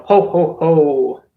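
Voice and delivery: lightly voiced strongman chortle; a hint of hearty "ho, ho, ho" bluster; old-time strongman. Streamer playing America as a strongman, lightly blustering. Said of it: "I am an old-time strongman".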